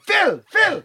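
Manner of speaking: high, urgent calling of a mate; frantic wake-up call in the dark; urgent hushed call. Retold or imitated. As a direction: call him awake in a panic.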